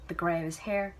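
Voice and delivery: ordinary delivery, nothing marked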